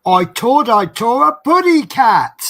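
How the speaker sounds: high, loud cartoon canary voice; cartoon bird voice. Cartoon catchphrase quoted.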